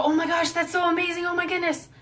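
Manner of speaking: oh-my-gosh praise for a good pup; showing the excited voice owners use with dogs; excited gushing. Shown as a demonstration. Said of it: "short, repetitive vocalizations when they're excited".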